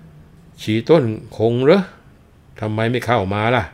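put-on high, loud and slow old monk calling from inside; an old monk calling out through the door, high and drawn out. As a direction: call out from the room like a drowsy old monk. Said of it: "ร้องไปบอกว่า".

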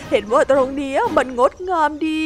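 high, teary sorry, slowing at the end; high whimpering apology; tearful apology. Acted. Startled hippo apologises, teary.

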